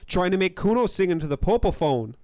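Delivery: lightly put-on indignant kid accent; a hint of bratty street accent; offended, in a mildly faked accent. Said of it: "I'll do more of the accent".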